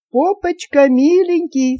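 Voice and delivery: high, slow, affectionate coo; cooing to pet. Acted. Mistress greets her parrot in its cage, cooing. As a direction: draw it out fondly for a pet bird.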